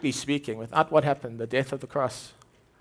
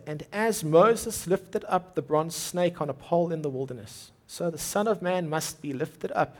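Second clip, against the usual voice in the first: slow reading. Shown as a demonstration. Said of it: "So let me say that again".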